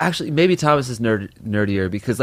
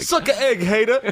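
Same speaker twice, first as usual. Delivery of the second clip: high, laughing taunt; mock taunt; 9 semitones higher than usual. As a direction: tease him like a kid.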